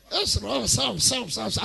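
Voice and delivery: mock London mumble. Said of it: "You, you, where be Ikechi?".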